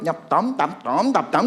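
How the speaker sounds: clipped nonsense syllables imitating Thai or Burmese; mock Thai or Burmese. Preacher mimics Myanmar and Thai delegates, mock Thai or Burmese. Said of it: "Kalau yang Myanmar atau yang Thailand".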